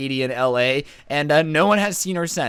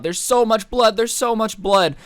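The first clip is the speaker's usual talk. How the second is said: higher and louder, panicked repeat; mock-frantic girl pleading; hysterical; 7 semitones higher, 4 dB louder than usual. Hysterical girl at the door telling the guys, panicked. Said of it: "she's hysterical".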